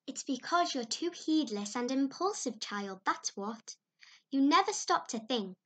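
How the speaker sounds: lightly voiced, chiding neighbour; older woman chiding a child; scolding older woman. Mrs Lynde lecturing Anne.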